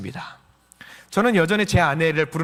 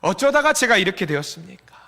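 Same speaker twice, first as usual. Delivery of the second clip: anguished prayer, rising in pitch; acted tearful plea; 5 semitones higher than usual. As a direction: cry out to the Lord, imploring. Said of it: "울면서 주님께 매달려야 합니다".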